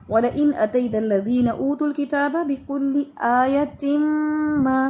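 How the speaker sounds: slow, drawn-out tajweed recitation; Quran recitation. Shown as a demonstration. Teacher reading the verse back to her student, slow recitation. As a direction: recite the verse slowly as in class.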